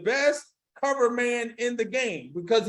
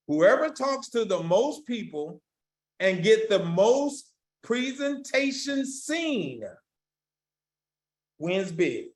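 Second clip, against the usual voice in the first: very slow, drawn-out dictation; slow reading; slower than usual. Shown as a demonstration. Speaker repeating the key statement for note-takers, very slow reading. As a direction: stretch each phrase out with long pauses. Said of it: "I'm gonna read it slow".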